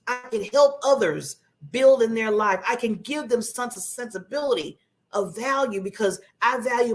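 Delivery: measured, self-assured affirmation; firm, deliberate belief in yourself; confident. Shown as a demonstration. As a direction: state it with steady conviction. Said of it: "Isn't that a little bit more, sound more confident".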